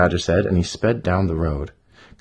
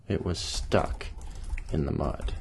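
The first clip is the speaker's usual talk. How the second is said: low language; 3 semitones lower, 9 dB quieter than usual. Shown as a demonstration. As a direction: hush it like a plain aside. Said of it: "low language".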